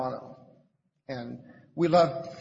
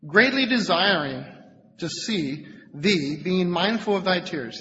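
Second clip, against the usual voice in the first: scripture reading; 3 semitones higher, 5 dB louder, slower than usual. Acted. Preacher reads Paul's letter to the congregation, emphatic reading. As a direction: read the verse out with slow, raised emphasis.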